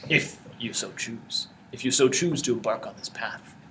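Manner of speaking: slow, lightly voiced sage; measured, portentous mage offering a choice; cryptic mage. Mage offers the seeker a path, slow and cryptic.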